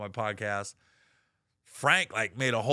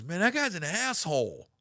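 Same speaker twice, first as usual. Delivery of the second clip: exasperated shout; 6 semitones higher than usual. Retold or imitated. New web guy reporting back, exasperated shout. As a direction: blurt it out with exasperation.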